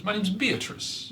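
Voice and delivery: high, slow, genteel heron. Acted. DM voices heron Beatrice greeting the wizard, high and slow. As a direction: preen like a proud old bird. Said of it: "and she says".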